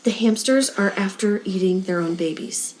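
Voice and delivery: put-on Irish phrase in a plain American accent; soft, low American accent, deadpan retelling. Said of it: "In the most American accent".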